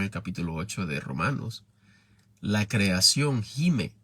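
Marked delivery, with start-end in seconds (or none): 2.4-3.9 slow emphasis. Shown as a demonstration. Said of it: "Imagínense".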